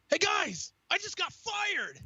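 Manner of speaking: high, bright mock-cheery announcement, slow at the end; mock cheerful announcement. Telling his friends he got fired, with mock cheer. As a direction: play it like good news.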